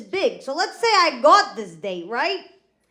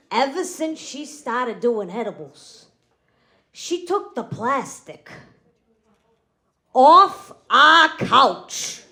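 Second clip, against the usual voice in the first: slow, word by word, building to a loud final phrase; dramatic slow reveal; 3 dB louder, slower than usual. Acted. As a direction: draw out the punchline, then hit it hard. Restarts setup slowly for big reveal.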